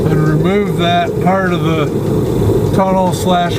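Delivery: talking while lying under a car; speaking on your back under a car. Real, not acted. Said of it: "so I'm under the car right now".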